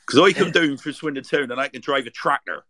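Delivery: a loud, hammed-up Swindon yokel rhyme; Swindon accent. Shown as a demonstration. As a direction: belt out the rhyme in broad Swindon. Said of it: "give us a Swindonian sentence".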